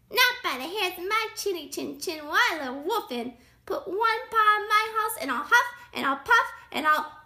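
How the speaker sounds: high, loud storybook threat; rude pig shouting. A narrator's reading. Pig threatens the wolf at the door, shouting. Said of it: "shouted the pig".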